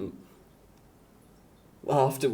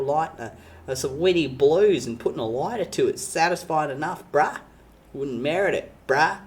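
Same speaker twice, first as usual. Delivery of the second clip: put-on Australian accent. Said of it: "I am speaking the very unique language that is called Australian".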